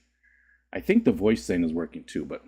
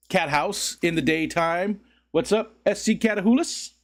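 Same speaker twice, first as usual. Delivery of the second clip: raised playful greeting; 8 semitones higher than usual. Pretend.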